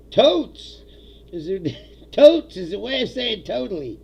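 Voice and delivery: loud, high mock of a radio ad guy explaining slang; lightly sends up the cheesy ad guy. Streamer mocking the radio ad guy's slang explanation, loud and high. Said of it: "this guy goes".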